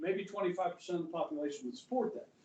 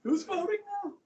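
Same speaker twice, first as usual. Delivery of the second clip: pressing question; 13 semitones higher than usual. Acted. Teacher repeats question, higher.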